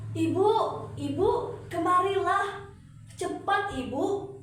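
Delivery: high, loud calling out for mother; spoiled daughter shouting for her mother; urgent call. Acted. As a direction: yell for mum across the house.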